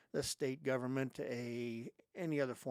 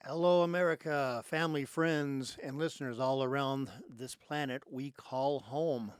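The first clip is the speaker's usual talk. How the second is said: show-opening greeting; 6 dB louder than usual. Real, not acted. Host to listeners worldwide, big opening greeting. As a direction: greet the whole audience, projecting.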